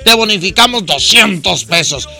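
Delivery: upbeat announcer pitch for the sponsor; bright pushy commercial read; radio ad read. Acted. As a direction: sell it like a live radio spot.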